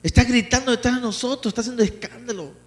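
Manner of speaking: lightly voiced annoyed disciple; complaining disciples. Preacher voicing disciples mildly complaining about the woman. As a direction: grumble to the Lord about the noisy woman. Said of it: "le rogaron al Señor".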